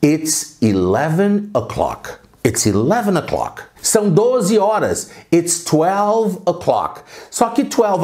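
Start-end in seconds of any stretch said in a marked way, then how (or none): 0.0-2.1 slow, drawn-out English phrase; slow model. Shown as a demonstration. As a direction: model it slowly for repetition. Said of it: "vamos treinar".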